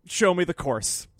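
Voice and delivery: slow, high indignant dare; retold angry challenge. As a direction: throw down the challenge, drawn out. Retelling own angry driving argument.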